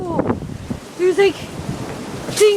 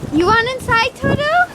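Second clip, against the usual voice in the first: pet talk; 6 semitones higher than usual. Real, not acted. Talking to her dog.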